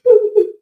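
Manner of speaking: high, loud burst of laughter; real laugh at herself. Real, not acted. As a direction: crack up at the impression. Laughing at own impression.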